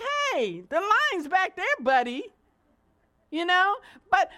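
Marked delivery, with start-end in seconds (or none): 0.0-2.3 louder telling-off of a line-cutter; a hint of annoyed scolding. Preacher admitting her instinct toward a line-cutter, mildly annoyed. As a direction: snap at the cutter. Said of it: "My natural instinct is like".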